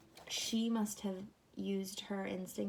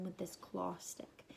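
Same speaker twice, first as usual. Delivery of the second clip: ominous whisper; 6 dB quieter, slower than usual. Acted. Ominous object, kids listening.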